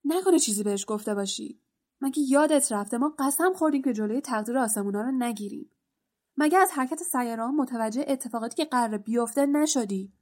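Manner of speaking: fast, pushy accusing questions; a touch of a combative scold; aggressive. Acted. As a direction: press him hard, quick and hostile. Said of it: "بین با پرخاشگری گفت".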